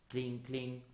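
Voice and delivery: imitated twinkling cling-cling; clinking noise. Picasso painting the stars lighting up, imitated clinking. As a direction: chime it like little stars. Voicing the painter's strokes aloud.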